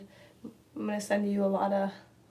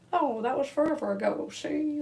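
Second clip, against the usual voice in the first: voiceover voice; 7 semitones higher than usual. Retold or imitated. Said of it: "that voiceover thing".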